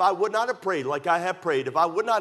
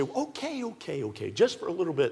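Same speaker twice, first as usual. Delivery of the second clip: exasperated parent giving in; 3 semitones higher, 3 dB quieter than usual. Acted. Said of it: "You say".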